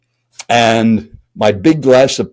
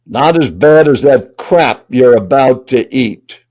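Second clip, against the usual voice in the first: slow, pointed retort, lightly acted; imitated stranger's tone. Stranger beside him on the plane comments on his meal, slow and pointed. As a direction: imitate a blunt stranger, stretching the words. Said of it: "in this exact tone and volume".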